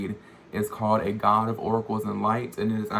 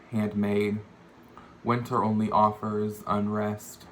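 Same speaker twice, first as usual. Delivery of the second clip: measured poem recital, phrase by phrase; poetry reading. Acted. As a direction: read it as verse, pausing between images. Reads own poem aloud.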